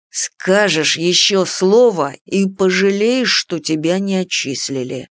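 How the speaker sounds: slow, even menacing tone; calm threat. Acted. Werewolf coolly threatens the dragon, slow and even. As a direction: threaten coolly without heat. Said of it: "невозмутимым тоном произнёс оборотень".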